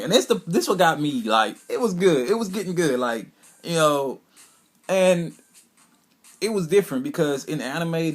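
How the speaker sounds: gushing to viewers about the best part; excited. Real, not acted. Fan excitedly telling viewers about the scene, excited and high. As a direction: voice jumps up high and loud with excitement.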